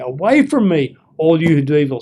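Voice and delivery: firm rebuke to evildoers; telling people off. Shown as a demonstration. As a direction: send them away with authority. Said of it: "now he's telling people off".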